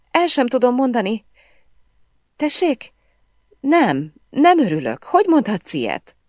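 high, pleading, whiny voice near tears; hurt, tearful whine. A narrator's reading. Emily pleading with Sven on the phone, tearful and hurt. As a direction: whimper like a wronged little girl. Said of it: "A nő hangja sértett és sírós volt, szinte nyafogott".

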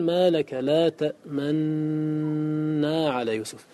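slow, measured recitation of the verse; تلاوة بطيئة مع الإشمام; slow Quranic recitation. Shown as a demonstration. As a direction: recite the verse slowly, rounding the lips on the nun. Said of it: "فتقول".

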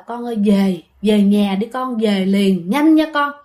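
retold calling, insistent at the end; father urging. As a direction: relay a father's urgent summons home. Retells father's urging call.

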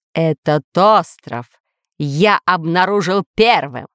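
slow, emphatic villain claim; menacing. Acted. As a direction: stake the claim threateningly. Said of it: "грозно заявил повелитель".

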